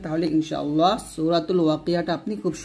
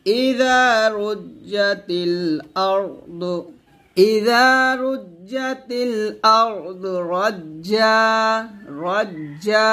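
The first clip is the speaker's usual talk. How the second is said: রাজ্জা drawn out one alif; recite for repetition; 3 semitones higher, much slower than usual. Shown as a demonstration. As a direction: model it for students. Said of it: "আবার বলেন". (শিক্ষার্থীদের জন্য তিলাওয়াত)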